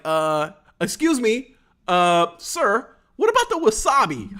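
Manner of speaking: slow, prim, then jumps high on wasabi; mock polite host. Mukbang host catching him dodging the wasabi, prim and pointed. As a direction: play the sweetly insistent host.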